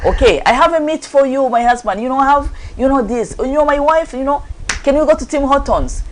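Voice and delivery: butter him up playfully; wife lightly coaxing her husband with food; cheery placating wife. Retold or imitated.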